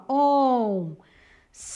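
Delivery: oncinhas with SI hugely stretched; stress on SI. Shown as a demonstration. Teacher showing pupils the stressed syllable, SI in oncinhas held very long. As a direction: draw out oncinhas syllable by syllable, holding SI. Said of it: "eu falo com mais força".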